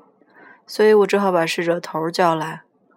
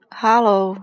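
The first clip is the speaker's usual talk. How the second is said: raised-voice phone hello; near shout into the phone; 2 semitones higher, 3 dB louder than usual. A narrator's reading. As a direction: call out hello, almost shouting. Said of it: "几乎是在大声吆喝".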